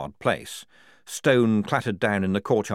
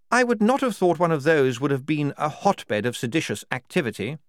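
higher-pitched officer making a pointed remark; questioning major; 8 semitones higher, 4 dB louder than usual. Acted. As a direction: voice a sceptical major. Major voiced in story.

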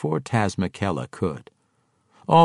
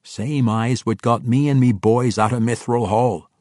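loud, higher dwarf warrior voice; 4 semitones higher, 4 dB louder than usual. Acted. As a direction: boom it out like a proud dwarf king. Brunner voiced in story.

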